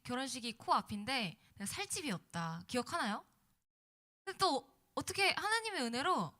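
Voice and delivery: ordinary delivery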